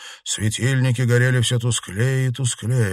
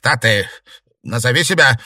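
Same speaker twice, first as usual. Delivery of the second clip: chilled with fear; 4 semitones higher, 8 dB louder than usual. A narrator's reading. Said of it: "холодея произнёс Бест".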